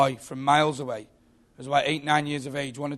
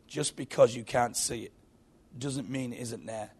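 lightly voiced wise Gorgonite, dropping softer; 3 semitones lower, 5 dB quieter than usual. Gorgonite turns round to the kid, lightly wise voice. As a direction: answer gently as a sage, sinking quieter. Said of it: "wise voice".

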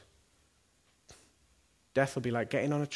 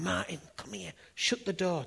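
higher-pitched imitation of a chirpy summons; lifted voice, eager retold summons; bright, changed attitude; 6 semitones higher than usual. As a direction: brightly call him in, as she did. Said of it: "but really bright, totally different attitude".

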